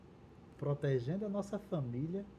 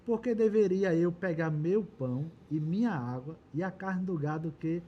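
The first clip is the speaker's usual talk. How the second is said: scripture reading. A narrator's reading. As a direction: read out a challenge in measured phrases. Reads Nabal's scornful reply from scripture.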